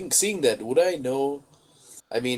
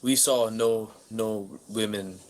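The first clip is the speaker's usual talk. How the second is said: slow, grave, grand; the adventurer solemnly tells the stranger no woman was found; solemn hero voice; 3 semitones lower, slower than usual. Acted. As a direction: deliver bad news like a lofty knight. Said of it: "character reply".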